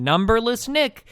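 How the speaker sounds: high, slow drawn-out nickname taunt; mocking taunt. Real, not acted. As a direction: savor each mocking nickname.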